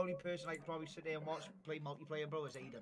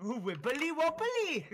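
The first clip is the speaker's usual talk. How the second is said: laughing Welsh mock; 10 semitones higher, 5 dB louder, slower than usual. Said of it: "the speaker doing her Welsh accent".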